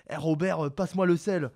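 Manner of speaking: lightly put-on Marseille accent; mock Marseille accent. Debater imitating a local by the Vieux-Port, Marseille accent. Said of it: "Je vous ai fait l'imitation de".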